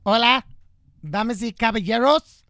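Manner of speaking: loud, high Spanish stage greeting; mock endorsement speaker. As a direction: playfully hail the crowd in Spanish. Mock Spanish endorsement speech, joking.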